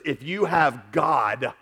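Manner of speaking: "if you have God" drawn out very slowly; slow emphasis. Shown as a demonstration. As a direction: let each word sink in. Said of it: "listen to this".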